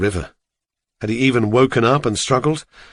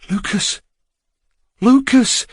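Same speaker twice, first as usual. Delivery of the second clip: distant calling; 12 semitones higher, slower than usual. Acted. Someone calling his name in darkness.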